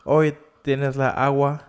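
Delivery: mock questioning lilt climbing onto "agua"; imitated upspeak. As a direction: let "agua" rise as if asking.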